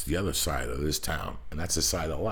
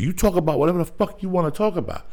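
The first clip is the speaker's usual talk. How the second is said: ranting; 13 semitones higher, 8 dB louder, faster than usual. Real, not acted. Comedian ranting about creative freedom.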